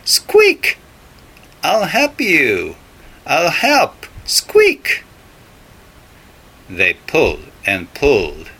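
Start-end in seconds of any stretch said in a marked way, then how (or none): 0.1-5.0 very high, tiny mouse voice; squeaky mouse. Acted. Mouse offering to help pull the turnip, very high squeaky voice. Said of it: "The mouse said".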